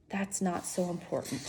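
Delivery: softly, a little down; quiet. A narrator's reading. Bob quietly answering Ivan, soft and low-key. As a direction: say it quietly, brushing it off. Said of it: "he says quietly".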